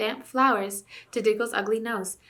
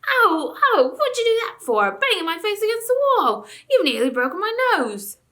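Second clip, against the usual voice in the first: high, loud whining howl; 12 semitones higher, 7 dB louder than usual. A narrator's reading. Dwarf howling at the king over his bruised nose. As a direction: wail about the nose. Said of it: "rubbing his nose and howling".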